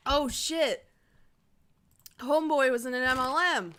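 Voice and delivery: loud excited exclaim. Real, not acted. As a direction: blurt it out excitedly. Repeats discovery excitedly.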